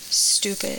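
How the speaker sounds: unvoiced child's whisper of a forbidden word; embarrassed whisper. Kids reporting a bad word from school, embarrassed whisper. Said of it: "they were so embarrassed to even say".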